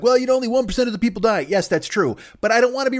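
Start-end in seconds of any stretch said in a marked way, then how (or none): 0.0-1.4 high, fast mock whine of a careless person. Comic mocking people who shrug off deaths, in a high fast whine. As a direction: sneer it out quick, mimicking the dismissive crowd. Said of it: "people like".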